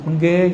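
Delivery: Engge, Madurese way of saying yes. Shown as a demonstration. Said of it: "orang Madura bilang iya apa".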